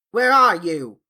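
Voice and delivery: loud call to hidden voices; shouted question. Acted. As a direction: shout out, searching. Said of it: "shouted Andrew".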